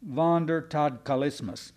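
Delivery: Wandertodkalismus said as vahn-der-tod-kah-lis-mus, with a German v; German word said carefully. Shown as a demonstration. Preacher showing the congregation how to say it, German-sounding. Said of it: "she taught me how to say".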